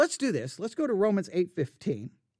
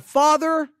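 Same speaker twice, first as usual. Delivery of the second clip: higher, louder plea to a father; a preacher acting a loud cry to God; 7 semitones higher, 7 dB louder, slower than usual. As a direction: call out like a child crying to his dad. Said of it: "We cry out to God".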